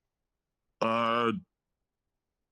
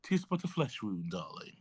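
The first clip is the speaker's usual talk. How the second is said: faint mock British accent, breezy and dismissive. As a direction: wave off the wound in a posh British voice. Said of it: "how to do my accent".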